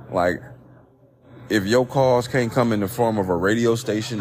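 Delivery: ordinary delivery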